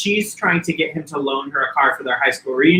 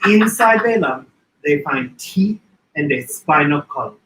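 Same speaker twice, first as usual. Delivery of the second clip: Greek aunt quote. Retold or imitated. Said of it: "favorite line".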